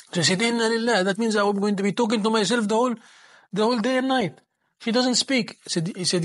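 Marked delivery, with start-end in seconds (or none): 0.4-5.6 high-pitched dismayed outcry; a shocked groom protesting, pitched high; dismayed exclamation. Acted. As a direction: throw the words up in disbelief. Young man dismayed by mute bride.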